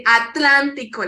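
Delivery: Atlántico with the stress on the second syllable, lán; correct stress demo. Shown as a demonstration. Teacher showing students the correct stress, then the correct Spanish stress. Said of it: "you have to put an accent in that word".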